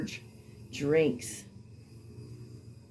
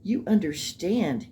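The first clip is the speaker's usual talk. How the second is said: imitating her; 4 semitones higher than usual. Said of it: "she says something like".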